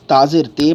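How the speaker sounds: "تا زیر تے" ending on tay; learners' wrong reading. Retold or imitated. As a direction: quote the mistaken "تا زیر تے", ay instead of ee. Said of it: "پڑھتے تھے".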